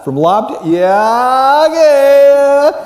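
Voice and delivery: high, loud delighted yeah; light up as you finally place the face; excited recognition. Retold or imitated. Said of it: "see 'em years later and go".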